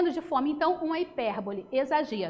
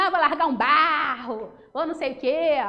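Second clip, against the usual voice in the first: put-on crude boys; 6 dB louder than usual. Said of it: "Aí os meninos".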